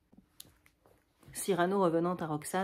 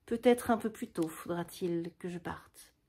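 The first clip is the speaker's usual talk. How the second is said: avec douceur. Acted. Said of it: "Cyrano avec douceur".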